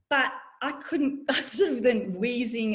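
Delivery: half-laughing through the words. Real, not acted. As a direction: chuckle while admitting the struggle. Laughing at own unfitness.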